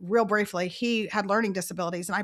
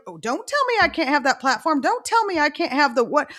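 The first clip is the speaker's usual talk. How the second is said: lightly imitated child's protest, higher pitched; mock childish complaint, pitched up; protesting little kid; 5 semitones higher, 4 dB louder than usual. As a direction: act out a kid refusing to be told no. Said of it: "We're the little kid".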